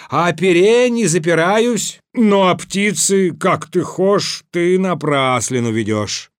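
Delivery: high and forceful, easing at the end; indignant protest. A narrator's reading. Ivan argues with the tsar over the firebird, indignant protest. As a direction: concede one point, dispute the other.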